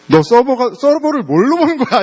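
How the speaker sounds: high-pitched indignant mock scolding; mock nagging. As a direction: playfully launch into a parent's telling-off. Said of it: "이렇게 막 잔소리를". (잔소리하듯 발끈한 척)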